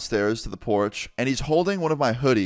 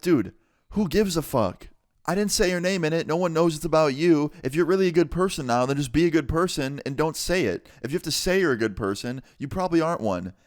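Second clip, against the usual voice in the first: exasperated retort; 6 semitones higher than usual. Retold or imitated. Retold argument, firing back.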